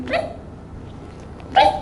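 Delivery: short imitated chirps; confused bird chirp. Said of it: "Kayak orang bingung". (kicau pendek burung bingung)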